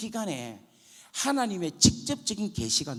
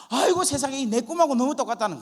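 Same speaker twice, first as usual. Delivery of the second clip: loud, raised-pitch outburst; amazed exclamation; 7 semitones higher, 7 dB louder than usual. Retold or imitated. Friend seeing his dream in the Bible, retold with loud amazement. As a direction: exclaim it like a stunning discovery.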